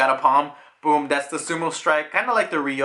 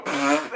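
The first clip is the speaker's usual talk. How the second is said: imitated snort. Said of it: "you just see him go".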